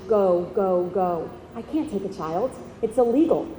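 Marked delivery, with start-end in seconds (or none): 0.1-1.3 urgent mother's plea. Retold or imitated. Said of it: "says in her language".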